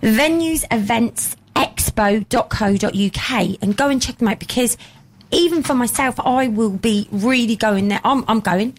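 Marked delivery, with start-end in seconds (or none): 0.0-3.6 web address read out slowly and clearly; slow spelled-out URL. Shown as a demonstration. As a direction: spell out the site for listeners. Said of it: "W W W dot".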